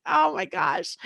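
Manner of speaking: a sudden lift of hope; amazed. Retold or imitated. Wife hearing hope from the doctor, amazed and high. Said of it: "it's like".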